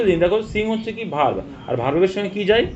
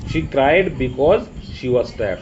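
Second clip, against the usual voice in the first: 1 slow read-out; much slower than usual. Shown as a demonstration. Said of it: "full clause হয়".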